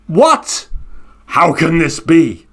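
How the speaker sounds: bird can't believe it; astonished Garuda bird. Acted. Garuda bird startled by the turtle again, disbelieving.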